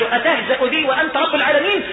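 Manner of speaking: quoted question, voice lifted. Acted. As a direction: recite the servant's question out clearly. إعادة سؤال العبد في الحديث.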